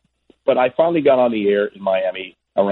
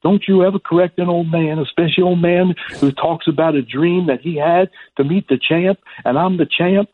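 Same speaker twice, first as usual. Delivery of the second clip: higher-pitched, admonishing champ impression; Muhammad Ali; 8 semitones higher than usual. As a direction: lay down the rule as the champ, pitched up. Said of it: "And Ali said".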